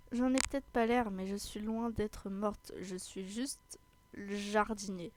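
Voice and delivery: slightly subdued, slow character read; a hint of an unhurried gardener; lightly voiced gardener.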